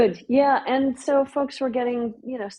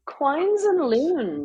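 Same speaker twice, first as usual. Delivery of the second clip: slow repeat; 5 semitones higher, much slower than usual. Shown as a demonstration. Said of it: "repeating the Doric words".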